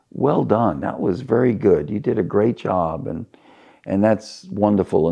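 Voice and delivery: understated, measured praise; politely approve, holding back any exuberance; restrained congratulations from a retold father; without much emotion. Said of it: "without a lot of emotion".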